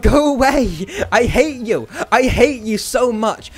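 high frantic yell of go away; yelling at the mobs to back off; shout. Real, not acted. Gamer yelling at mobs, frantic high shout.

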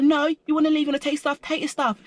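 high mock northern English voice; Northern English accent. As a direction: imitate a cross northern English woman. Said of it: "she was from up north".

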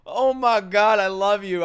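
slow, high, gushing squeal. Real, not acted. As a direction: swoon over how cute she is. Fangirling over character.

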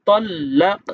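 তল্লাক with a bouncing echoed ক at the end; qalqala echo. Shown as a demonstration. Teacher shows qalqala on তল্লাক for students. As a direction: let the ক of তল্লাক rebound. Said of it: "কফটা কেমন যেন একটু ভিতরে double হয়ে".

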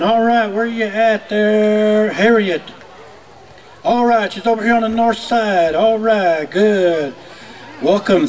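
booming arena announcer calling names; powwow emcee. Acted. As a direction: announce each dancer to the crowd.

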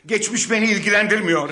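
high, loud angry retort; defiant shout. Acted. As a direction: fling it back at them. Defiant victim.

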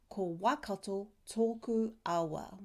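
"toku" whispered with a long o in "tōku"; whispered demo. Shown as a demonstration. Teacher whispers the Māori line to model the vowel. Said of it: "we emphasize the vowel sound".

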